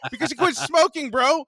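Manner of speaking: doctor cheering him on, mock-excited; happy doctor. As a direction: deliver it delighted and laughing. Doctor's happy reply retold.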